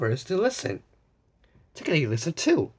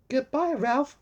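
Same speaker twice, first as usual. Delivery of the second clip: called out; 8 semitones higher than usual. A narrator's reading. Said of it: "Blue called".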